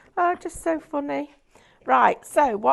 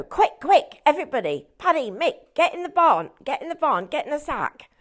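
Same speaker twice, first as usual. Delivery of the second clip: urgent hurry; 3 semitones higher than usual. Retold or imitated. Irishman hurrying his friends into the sacks, mock urgent. Urgent whispered order in joke.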